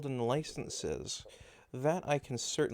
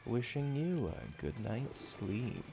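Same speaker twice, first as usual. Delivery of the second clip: sexy voice; 2 semitones lower, 5 dB quieter than usual. Pretend. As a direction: croon her to sleep. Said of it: "this is supposed to be my the sexy voice".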